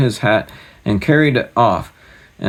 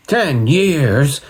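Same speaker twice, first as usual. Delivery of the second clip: higher, louder disbelieving gasp; shocked gasp; 6 semitones higher, 4 dB louder than usual. Acted. King shocked at waiting ten years, higher gasp. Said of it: "gasped the king".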